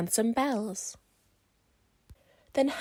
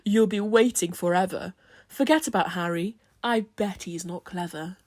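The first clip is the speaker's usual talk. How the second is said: mocking rival; 3 semitones lower, 4 dB louder than usual. Reginald mocks Harry.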